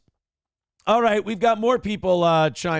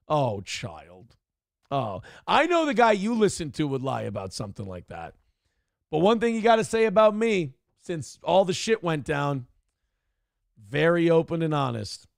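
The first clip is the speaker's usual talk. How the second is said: condescending. Retold or imitated. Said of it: "you're like".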